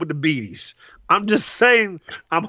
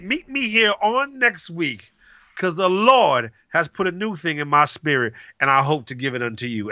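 real prophet. Pretend. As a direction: deliver it like a prophet in the pulpit. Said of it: "You gotta sound like a real prophet".

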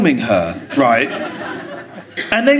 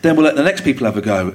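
lower, easy retold dad voice; patient dad voice; 6 semitones lower than usual. Father telling his boys to share, patient. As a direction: talk the kids round gently.

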